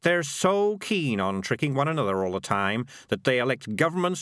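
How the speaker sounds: animated cynical explainer; scheming talker Morris. Acted. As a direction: lay out the scam with relish.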